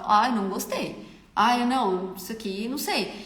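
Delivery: demonstrating a blunt client's reply; blunt, seemingly rude. Shown as a demonstration. Outspoken client judging the makeup, blunt. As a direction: say it straight out, no cushioning. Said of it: "a pessoa que fala desse jeito assim".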